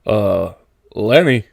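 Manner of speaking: a sharp warning call of the name; said sharply. Acted. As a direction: snap the name out to stop him. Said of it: "he said sharply".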